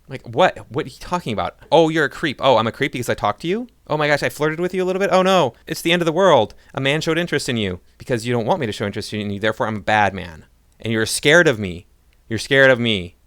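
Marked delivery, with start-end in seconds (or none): 1.7-13.2 mock accuser.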